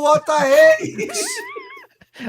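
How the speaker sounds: squealing with laughter; high shriek of laughter; laughing shriek. Real, not acted. Excited shout of disbelief.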